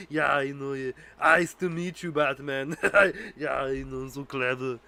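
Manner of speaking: smug villain chuckling at his own pun; Mister Freeze impression. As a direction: gloat over the joke with laughs. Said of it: "he's like".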